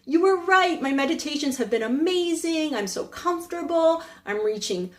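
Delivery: excited student. Retold or imitated. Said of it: "the student comes back to the master and goes".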